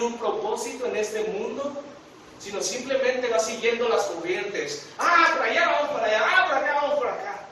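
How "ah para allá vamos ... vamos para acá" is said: high, loud, carefree wandering voice; mock aimless sheep. Preacher mocking a lost sheep, high and loud. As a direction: play a lost sheep drifting here and there.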